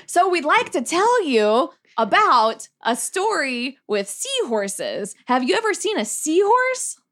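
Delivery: lightly put-on storyteller with big rises and drops; storybook presenter. Presenter pitching seahorses to bar customers, storybook manner. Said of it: "So we have a story to tell you".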